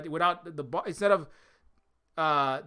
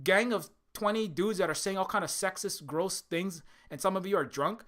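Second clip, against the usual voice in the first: mock cheerful call-out; 3 semitones higher than usual. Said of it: "You know, or".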